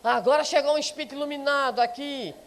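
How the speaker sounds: teasing, sarcastic family jab; mocking jibe. Relative teasing the newly devout at home, mild sarcastic jab. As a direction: needle the new convert with a sneer. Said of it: "alguém com a piadinha".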